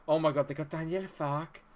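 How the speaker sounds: Daniel Fark. Acted. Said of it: "I can't do a very good impression".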